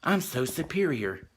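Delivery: quick, condescending mock sympathy; fast, lightly voiced sneer of fake pity; snooty Juliet impression. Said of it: "gives him this look like".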